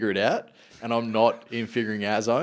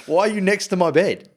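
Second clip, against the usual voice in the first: higher, louder alarmed question; mock startled dad; 9 semitones higher, 6 dB louder than usual. Dad waking to kids by his bed, a high alarmed question. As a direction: jolt awake and demand why.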